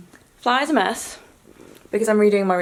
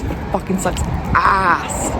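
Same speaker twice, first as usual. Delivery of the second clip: drawn-out groan of frustration; 3 dB louder, slower than usual. Real, not acted. Venting about failing test.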